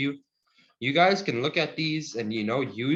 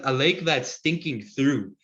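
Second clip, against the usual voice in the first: slow meaning gloss. Shown as a demonstration. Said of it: "like a through".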